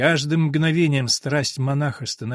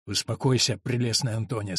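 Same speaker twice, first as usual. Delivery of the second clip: успокаивающе; 5 semitones lower, 4 dB quieter than usual. Acted. Монах успокаивает Антонию.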